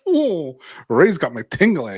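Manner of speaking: a hint of a tingly, delighted fan; swooning ASMR listener. Viewer enjoying the ASMR, lightly mock swooning. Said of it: "going like".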